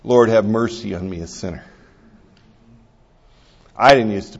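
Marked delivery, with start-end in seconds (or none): 0.0-1.6 quiet prayer. Shown as a demonstration. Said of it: "the sinner's prayer".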